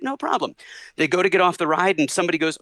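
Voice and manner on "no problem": high little pop star voice; high-pitched celebrity imitation. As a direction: imitate the star's high, easygoing reply. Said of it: "He's like".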